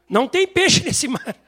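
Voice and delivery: high, loud, slow protest; exasperated fisherman. Retold or imitated. Pedro protesting to Jesus there are no fish. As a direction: make Pedro sound fed up.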